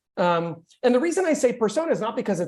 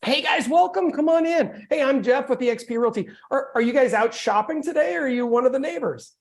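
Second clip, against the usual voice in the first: friendly greeting; 5 semitones higher than usual. Shown as a demonstration. Agent greeting visitors at an open house, smiling and upbeat. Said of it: "let me deliver the script for you guys".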